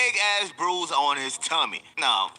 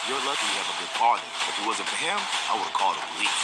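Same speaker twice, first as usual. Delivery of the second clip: scolding mom; 7 semitones lower, faster than usual. Retold or imitated. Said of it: "Jason's mom looks at both of us and goes".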